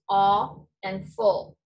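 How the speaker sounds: AW and FULL as two slow, separate sounds; syllables separated. Shown as a demonstration. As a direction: sound out "Aw", then "full", slowly. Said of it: "I hear two sounds".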